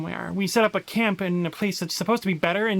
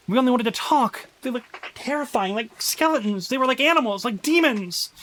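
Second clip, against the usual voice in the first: panicked survivor; 4 semitones higher than usual. Acted. Player voicing a survivor's journal, frantic and panicked. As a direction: read it like you just escaped an attack.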